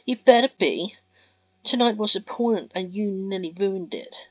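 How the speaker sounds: loud, high, cutting reproach; furious snap. Acted. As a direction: bite his head off, then keep pressing. Mia berating Ben.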